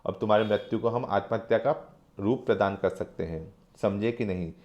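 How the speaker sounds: a quiet, cold threat; understated wolfish menace; menacing. Acted. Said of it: "हंसता हुआ खूनी भेड़िए सी नज़र टिका कर कहता है".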